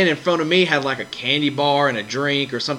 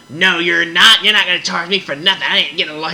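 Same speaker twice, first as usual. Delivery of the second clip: indignant customer; 3 semitones higher, 3 dB louder than usual. Retold or imitated. Customer refusing to pay for large.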